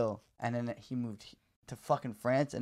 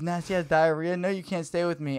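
loud furious rant, pitched higher; angry texter; 4 semitones higher, 6 dB louder than usual. Retold or imitated. Stranger texting about shit in his toilet, loud angry rant. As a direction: tear into him like a disgusted stranger. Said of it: "he goes".

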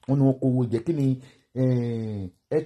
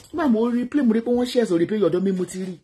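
ordinary talk

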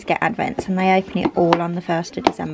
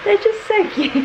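cutesy high voice; 12 semitones higher, 3 dB louder than usual. Real, not acted. Cooing over cute fidget toys.

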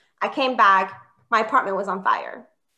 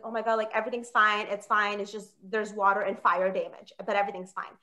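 lightly voiced calm reassurance, softer; reassuring firefighter; 2 semitones lower, 5 dB quieter than usual. Firefighter soothing a frantic tenant, mildly reassuring. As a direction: play down the damage, dropping softer toward the end.

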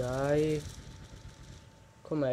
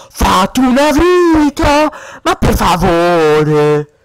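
yelled; 3 semitones lower, 6 dB louder, slower than usual. Real, not acted. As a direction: shout it right at him. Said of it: "proprio te lo urlo". (te lo urlo in faccia)

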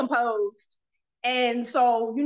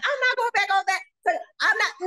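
freaked out; 8 semitones higher, faster than usual. Retold or imitated. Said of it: "freaking the fuck out".

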